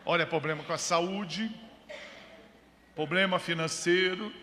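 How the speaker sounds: enumerar problemas em cadência de pregador; pregação enfática. Real, not acted. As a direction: ladainha de problemas, com acentos fortes. (pregação enfática em ritmo de lista)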